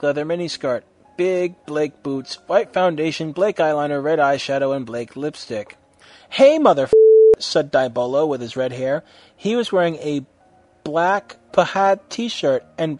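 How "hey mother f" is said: high, loud cheeky greeting; rowdy greeting. A narrator's reading. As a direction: bark a rude hello. Friend greets loudly.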